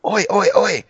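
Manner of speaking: very high mock crowd reply; high chanted answer, retold; imitated crowd shout. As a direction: imitate a stadium shouting back. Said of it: "everyone would shout".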